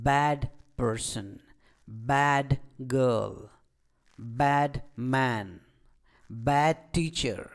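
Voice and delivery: ବ୍ୟାଡ୍ with a long open "a", word by word; drilling "baad" with pauses between words; long vowel. Shown as a demonstration. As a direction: model each phrase, stretching ବ୍ୟାଡ୍ to "baad". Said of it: "ଲମ୍ବା ଉଚ୍ଚାରଣ କରିଥାଉ".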